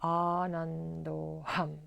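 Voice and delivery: meditative, drawn-out mantra with pauses between; mantra repetition. Shown as a demonstration. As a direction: chant each long-vowelled word evenly, easing down in volume. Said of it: "let's say this eleven times".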